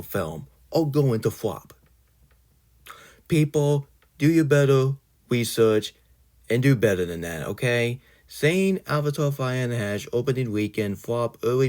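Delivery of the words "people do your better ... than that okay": scolding call-out. Real, not acted. Scolding the audience.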